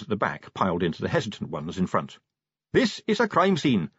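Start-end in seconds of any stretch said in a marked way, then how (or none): 2.7-3.9 high-pitched official announcement; announcing. A narrator's reading. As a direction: declare it to a crowd. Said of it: "Carrot announced".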